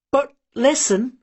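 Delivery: put-on the old woman calling him back; old mother. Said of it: "she added".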